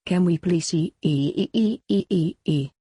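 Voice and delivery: stuck repeating e- in a pleading stammer; a stammered, desperate plea that can't get the word out. A narrator's reading. Girl begging her friend to host a party, desperate stammer. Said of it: "in a desperate look".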